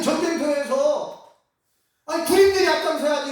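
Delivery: ordinary delivery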